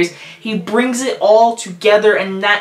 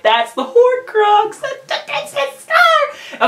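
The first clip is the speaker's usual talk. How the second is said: high, slow, squealing fan excitement; giddy excitement; slower than usual. Retold or imitated. Fan retelling spotting a movie clue, high giddy squeal. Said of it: "gets me all giddy up".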